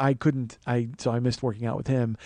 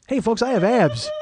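higher, louder, slow proclamation; mock announcement; 8 semitones higher, 5 dB louder than usual. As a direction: announce it to the folks with mock fanfare. Mock announcement of rediscovered abs.

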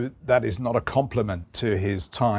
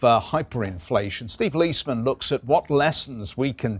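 rapid market news; 2 semitones higher than usual. Acted. Anchor reading market news intro.

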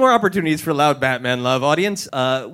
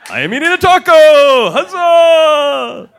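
higher, louder festival yell as a hammed-up Batman; Renfest Batman; 10 semitones higher, 9 dB louder than usual. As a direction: bellow it like a Batman at a Renaissance fair. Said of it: "Batman was at Renfest".

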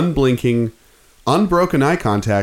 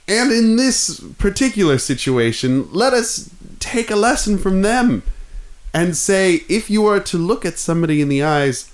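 mock oratory; 2 semitones higher than usual. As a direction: address the crowd like a pompous orator. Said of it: "Just talk normal, dude".

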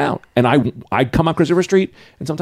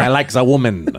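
hammy lesbian pirate; pirate talk played for laughs; 2 semitones lower than usual. Guest riffs on lesbian pirate voice, mock pirate. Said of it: "Lesbians could do pirate".

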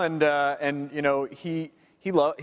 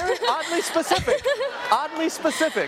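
laughing; 3 semitones higher than usual. Real, not acted. Laughing at fan remark.

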